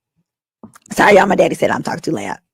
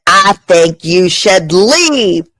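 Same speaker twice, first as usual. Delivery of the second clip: slow, lightly put-on stiff delivery; stiff Republican; much slower than usual. Comic retelling her date, mock prim stiff voice. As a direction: lay it down slowly like a stiff conservative. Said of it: "I said it like a straight Caucasian".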